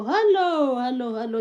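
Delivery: excited greeting. Real, not acted. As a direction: sing out a welcome to the viewer. Greeting a new viewer.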